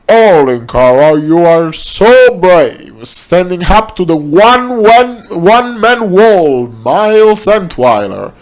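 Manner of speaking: hammed-up worried fanboy; worried admirer. A narrator's reading. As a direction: fawn over him while fretting.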